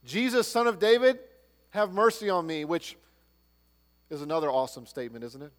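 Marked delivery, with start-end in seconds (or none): 0.0-2.6 crying out. Retold or imitated. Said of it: "Bartimaeus cries out".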